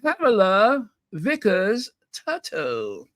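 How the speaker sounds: slow, grand announcing of a name, lightly posh; grand announcer. Pretend. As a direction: announce her like a gala guest. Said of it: "Ladies and gentlemen".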